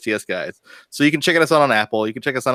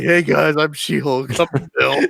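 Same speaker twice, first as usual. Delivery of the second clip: put-on girl voice; 4 semitones higher, slower than usual. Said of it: "talking with the girl voice".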